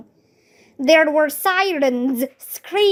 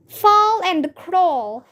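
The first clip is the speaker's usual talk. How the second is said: higher, slow rule called out; shouted; 5 semitones higher, slower than usual. Acted. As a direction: chant the safety tip. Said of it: "shouted Alexia".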